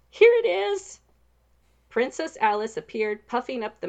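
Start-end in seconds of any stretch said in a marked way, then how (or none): 0.1-1.0 high, loud, excited call. Acted. Princess calling out to the knight. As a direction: burst in with the good news.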